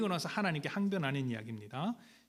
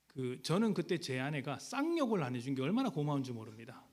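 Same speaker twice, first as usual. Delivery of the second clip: ordinary talk, nothing marked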